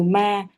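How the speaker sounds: "ma" with the a held longer; long vowel. Shown as a demonstration. Teacher comparing it with a shorter syllable, long vowel. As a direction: stretch the vowel in "ma". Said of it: "từ ma nó dài hơn rất nhiều".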